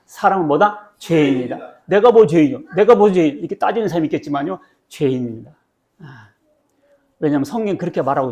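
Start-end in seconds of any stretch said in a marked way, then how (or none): 1.8-3.4 louder imitation of an objector; mildly indignant, put-on challenge; mock protest. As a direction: play someone disputing the accusation. Voices someone protesting being called sinner.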